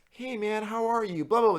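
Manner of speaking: high, patronizing greeting; imitating RAs testing the drunk; mock cheery RA. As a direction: talk to him like a child.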